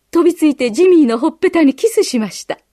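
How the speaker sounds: ordinary delivery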